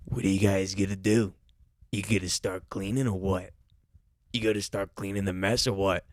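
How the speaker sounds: low mock snob ordering staff; entitled manager.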